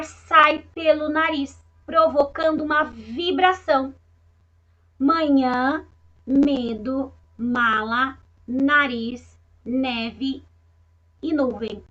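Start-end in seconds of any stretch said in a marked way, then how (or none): 5.0-11.8 each word read alone with a rising tune; teacher reading nasal words aloud; nasal demo. Shown as a demonstration. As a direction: read the list slowly with the nasal sounds clear. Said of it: "a Pro colocou o dedinho debaixo do nariz".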